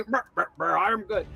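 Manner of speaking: lightly voiced eldritch pumpkin creature, with brr noises; a hint of a monster king, sputtering; benevolent pumpkin king. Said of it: "Pumpkin Eldritch, now not more benevolent king".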